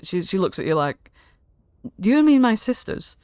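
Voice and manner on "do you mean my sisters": high-pitched startled question; suddenly realizing it's her own sisters; dawning alarm. Acted. Godmother realizes the hags.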